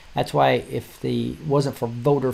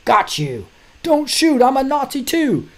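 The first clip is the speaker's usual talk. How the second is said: high, hammed-up surrender plea; mock pleading voice; 11 semitones higher than usual. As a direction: play a man begging not to be shot, mocking. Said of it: "meme that has this guy saying".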